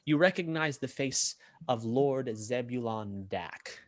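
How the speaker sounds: measured scene-setting with lingering pauses; game master narration. Acted. Game master describing a gambling tent to players, measured scene-setting narration. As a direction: draw out the key details, pausing between images.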